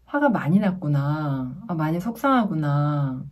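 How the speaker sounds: understanding parent reflecting feelings back; empathizing. Shown as a demonstration. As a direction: acknowledge the child's feelings with understanding. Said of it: "직접적으로 공감해주면서".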